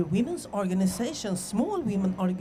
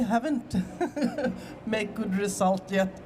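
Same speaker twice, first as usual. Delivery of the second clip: laughing. Real, not acted. Admitting little progress, laughing.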